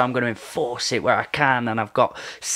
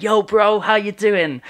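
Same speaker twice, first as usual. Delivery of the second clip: cheery greeting; 6 semitones higher, slower than usual. Retold or imitated. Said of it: "I'm like".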